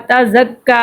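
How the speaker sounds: تا زکا with the final "kaa" held long; lengthened vowel. Shown as a demonstration. Teacher showing learners how to lengthen letters, drawn-out vowel. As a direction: stretch the last vowel of تا زکا. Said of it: "حرکات کو لمبا کریں گے".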